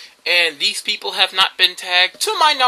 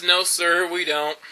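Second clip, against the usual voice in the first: lower, deadpan refusal; dead serious; 3 semitones lower, 4 dB quieter, slower than usual. Retold or imitated. Cookie worker answering odd customer, dead serious. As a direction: answer earnestly and let it drop away. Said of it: "looks at him dead serious and says".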